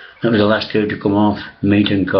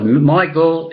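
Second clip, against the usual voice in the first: calling out; 8 semitones higher than usual. Retold or imitated. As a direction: summon the son from the house. Father calling his son.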